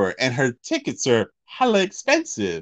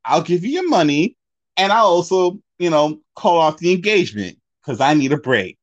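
put-on fed-up boyfriend; 4 semitones higher, 3 dB louder than usual.

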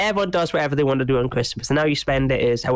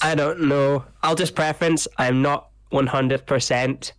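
blocked nose; slower than usual. Real, not acted. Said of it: "if my voice sounds a bit stuffy".

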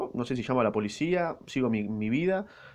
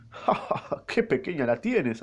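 carcajada burlona; 3 semitones higher, slower than usual. Acted. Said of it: "soltó una carcajada".

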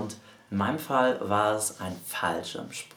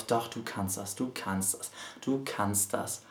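quiet inner pep talk; 5 dB quieter than usual. Retold or imitated. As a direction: talk yourself into it under your breath. Inner voice encouraging himself. (leiser innerer Zuspruch)

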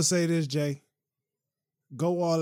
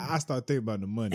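laughing repeat; faster than usual. Shown as a demonstration. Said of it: "Say, say that, uh, part again".

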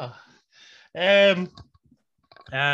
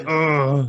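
Master P grunt; 2 semitones higher, 7 dB louder than usual. Retold or imitated. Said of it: "Make him say".

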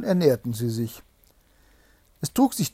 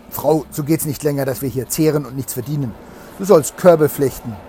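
a louder, firm husband voice; a hint of a stern husband, louder; 7 dB louder than usual. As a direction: lay down the law to his wife. Husband scolds wife in tale.

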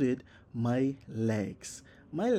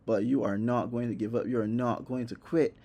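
self pep talk; 3 semitones lower than usual. Retold or imitated. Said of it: "I'm telling myself".

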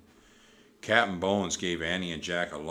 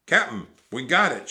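loud, raised triumphant shout; Pinky; 6 semitones higher, 11 dB louder than usual. A narrator's reading. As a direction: call the good news to the boss. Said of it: "shouted Pinky".

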